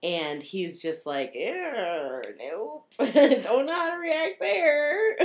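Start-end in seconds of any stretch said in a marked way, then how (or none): 1.3-5.2 awkward recoil. Retold or imitated. Awkward Drew recoiling from affection.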